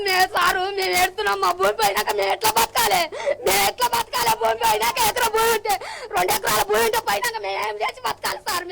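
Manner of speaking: sobbing through shouted pleas; crying out the words in real despair. Real, not acted. Farmer losing her land pleads to the reporter, crying and calling out. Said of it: "ఎందుకు ఏ-, ఏ-, ఏడుస్తున్నావు?".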